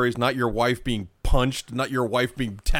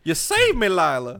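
mock grateful; 6 semitones higher, 4 dB louder than usual. Voicing Jenna thanking Lila.

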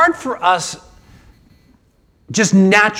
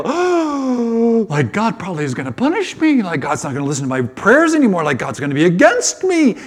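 rushed, worried self-talk after a long "Oh"; hammed-up guilty panic, quickly; mock dread; 2 semitones higher, faster than usual. Pastor imagining God's punishment after sinning, in mock dread.

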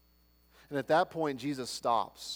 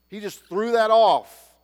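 loud, slow, higher burst; emphatic climax; 6 semitones higher, 12 dB louder, slower than usual. Real, not acted. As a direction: throw the line out like the cloak. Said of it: "preacher climaxing the story".

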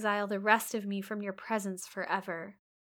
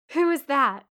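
laughing question; 6 semitones higher, 10 dB louder than usual. Acted. Jealous Rochester asks laughing.

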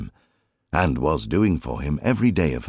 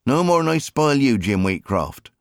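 retort; 8 semitones higher than usual. A narrator's reading. Mary teasing Jim back, high playful retort. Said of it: "she retorted".

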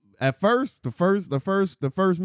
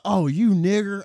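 higher, louder sneer; mock insult; 6 semitones higher, 5 dB louder, slower than usual. Retold to a friend, a drunk woman's loud mock insult. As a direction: throw the insult in a mock high yell.

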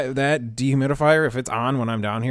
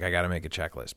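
muttered resolve; 5 semitones lower, 8 dB quieter, faster than usual. Retold or imitated. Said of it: "every time I'm like".

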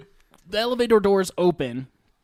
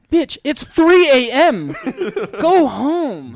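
loud, laughing scolding yell; a hammed-up angry boss's daughter; mock outraged shout; 7 semitones higher, 8 dB louder, slower than usual. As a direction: bark it at them half-laughing. Jill snaps at them to leave.

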